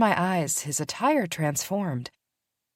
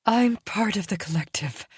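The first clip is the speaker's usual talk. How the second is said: higher, resentful snap; a touch of an angry she-wolf hissing; mild hiss; 6 semitones higher than usual. Acted. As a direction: spit it back at him. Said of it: "the first female hissed".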